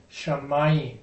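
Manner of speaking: "shamayim" stressed on its second syllable. Shown as a demonstration. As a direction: say "shamayim" leaning on "ma". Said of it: "the accent's on the second syllable".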